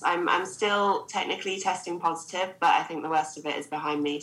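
blocked nose from covid; nasal voice. Real, not acted. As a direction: speak through a stuffy nose. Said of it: "if I sound a bit nasal".

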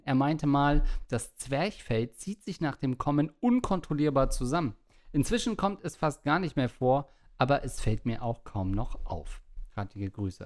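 measured read-aloud delivery; reading listener mail aloud. Acted. Host reads out a listener's message about her boyfriend, in read-aloud style.

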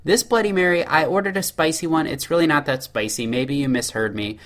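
mock-polite customer asking a favor; polite customer complaint. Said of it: "when the server comes back, you say".

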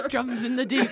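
giggling through the line; laughing. Real, not acted. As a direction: laugh while explaining the bit. Hums orc music under monologue.

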